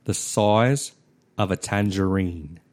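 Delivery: stretched Aussie vowels, size as soize; Australian accent. Shown as a demonstration. Showing a friend an Australian accent drill, in an Australian accent. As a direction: say tangerine with a broad Australian accent. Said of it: "vocal things to get your accent right".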